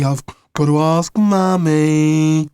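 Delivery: put-on slow, whiny little-kid voice; mock a babyish whine. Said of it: "he said in an incy-wincy baby voice".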